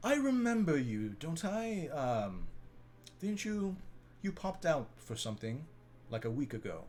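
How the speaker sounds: high lilting tune with the "I" stretched. Game master voices Lady Ophelia, pausing and looking at Ori: Lady Ophelia voice. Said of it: ""I remember you, / And then she kind of pauses and she looks at someone and she's like".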